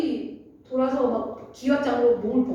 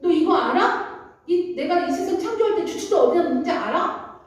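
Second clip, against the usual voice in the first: pointed, higher-pitched interrogation in God's role; God questioning; 5 semitones higher than usual. Acted. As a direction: put a hint of divine rebuke into the questions. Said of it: "하나님이 이렇게 물어보시는 거예요".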